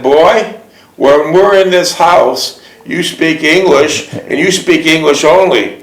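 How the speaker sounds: a hint of a stern father; firm, slow fatherly order; strict father. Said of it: "your father had a strict order".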